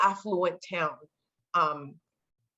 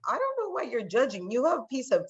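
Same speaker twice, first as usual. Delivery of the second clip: a touch higher, baffled; puzzled inner voice; 3 semitones higher than usual. Retold or imitated. Girl thinking back at the kids, mildly puzzled. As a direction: wonder why they judge. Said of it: "in my head, I'm like".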